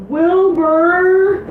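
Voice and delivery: high loud name call. Pretend. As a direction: belt out the name. Calling the name out again.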